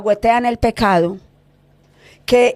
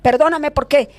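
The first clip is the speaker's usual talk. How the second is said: higher-pitched cry for forgiveness, mildly raised; urgent, pleading confession; retold shouted plea; 4 semitones higher than usual. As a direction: imitate a pastor crying out in repentance. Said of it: "otro pastor gritaba y decía".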